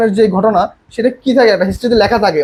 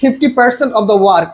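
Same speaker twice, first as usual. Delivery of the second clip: slow dictation; much slower than usual. Shown as a demonstration. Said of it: "বলছে".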